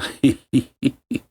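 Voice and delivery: short wicked stepmother laugh; a hint of a gloating cackle; evil chuckle. Stepmother laughs after wishing death.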